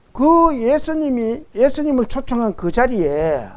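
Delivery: usual speaking voice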